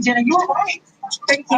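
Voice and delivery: usual speaking voice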